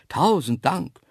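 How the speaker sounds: calling out his thanks with joy; overjoyed cry. A narrator's reading. Zoo director thanking his rescuer on the phone, overjoyed cry. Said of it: "schrie er beglückt".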